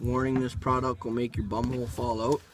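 talking with a dip in; words around a wad of snuff; chewing tobacco. Real, not acted. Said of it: "I pack a dip this big".

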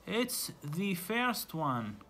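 excited shout. Acted. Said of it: "shouted باسم".

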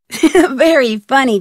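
laughing through the words, slowly; amused laugh. Acted. Nancy laughing at George's teasing, amused and slow. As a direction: chuckle it out, amused.

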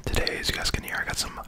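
whispering while chewing gum. Real, not acted. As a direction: talk around a piece of gum. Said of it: "I got some gum in my mouth".

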